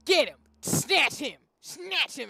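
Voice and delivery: loud urgent order to attack; loud command. Real, not acted. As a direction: shout the command at the ally. Calling ally to attack.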